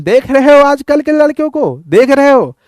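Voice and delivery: a hint of a grumpy grandfather; grandfather's grumble. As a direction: play the grandfather complaining about today's kids. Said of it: "कहें".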